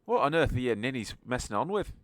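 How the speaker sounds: acted exasperated outburst; exasperated character. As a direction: burst in and tell off the ninnies. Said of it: "gonna walk into the room and go".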